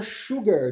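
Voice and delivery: "sugar" begun with a clear "sh"; "sugar" pronounced "shugar". Shown as a demonstration. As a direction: say the S of "sugar" like Portuguese X. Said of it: "O S com som de X".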